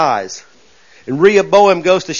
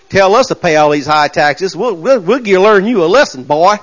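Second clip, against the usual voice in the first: lightly voiced good old boy threat; mock southern boys. Southern boys warning the tax-raising king, lightly mock threat. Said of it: "them old southern boys".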